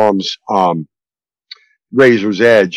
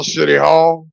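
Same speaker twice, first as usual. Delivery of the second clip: laughing; 2 semitones higher, slower than usual. Real, not acted. Laughing comeback.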